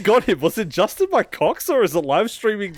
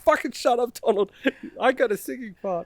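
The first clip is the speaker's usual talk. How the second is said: annoyed character voice; 9 semitones higher than usual. Acted.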